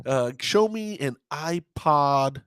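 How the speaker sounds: slow, deliberate mock game-show pick; drawing out the request; game show contestant. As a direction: lightly play a contestant naming a prize. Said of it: "we're playing Let's Make a Deal".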